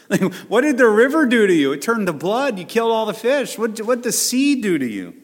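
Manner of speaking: high, fast, incredulous laughing questions; laughing mock disbelief. Preacher teasing congregation about God's anger, laughing disbelief. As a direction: tease it like a baffled bystander.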